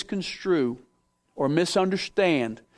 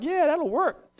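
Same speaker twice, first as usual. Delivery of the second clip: confident; 9 semitones higher, slower than usual. Retold or imitated. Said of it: "I'm like".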